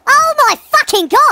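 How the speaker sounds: high, slow, drawn-out wail; panicked exclamation. Real, not acted. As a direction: stretch each word in high-pitched alarm. Panicking as dinosaur attacks.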